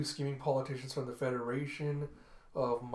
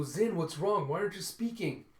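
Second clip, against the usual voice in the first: higher-pitched, anxious questioning; worried pleading; 5 semitones higher than usual. Acted. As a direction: press a silent friend with rising alarm. Micah anxiously questions silent Zin.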